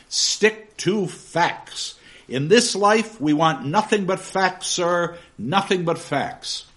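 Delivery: booming, emphatic lecturing voice; stern schoolmaster. Acted. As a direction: drive every word home like a sermon. Reading Gradgrind's speech aloud.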